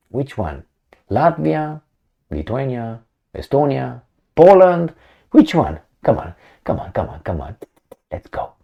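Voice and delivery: goading, daring them to pick one; mock taunting challenge. Russians daring the Baltic states to come, mock taunting. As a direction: taunt the rivals, trailing off to a mutter. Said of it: "the Russians are like this".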